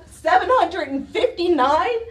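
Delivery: rising question on hundred, stunned; disbelieving question. Real, not acted. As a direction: ask it as if you can't believe the number. Reading out a pollution reading.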